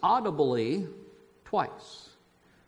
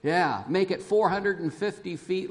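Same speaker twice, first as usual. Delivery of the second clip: a touch louder, lightly voiced booming God; God's loud voice; 3 dB louder than usual. Pastor voicing God commanding Noah, lightly booming. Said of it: "God says in that loud, audible voice".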